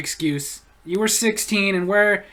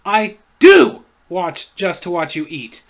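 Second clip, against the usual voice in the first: slow, louder creepy read; 3 semitones lower, 6 dB louder, slower than usual. Retold or imitated. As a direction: make it sound unsettling. Reading a creepy comment.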